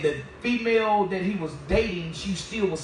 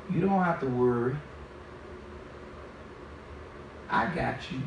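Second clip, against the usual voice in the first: false spirit voice; 8 semitones lower, 8 dB quieter than usual. Retold or imitated. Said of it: "that spirit didn't sound right".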